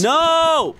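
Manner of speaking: very high, loud drawn-out cry; frustrated shout. Real, not acted. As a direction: wail it out as the game goes wrong. Outburst while playing a game.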